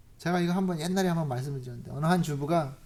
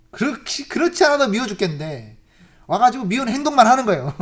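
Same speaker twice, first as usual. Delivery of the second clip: laughing while telling; 3 semitones higher, 8 dB louder than usual. Real, not acted.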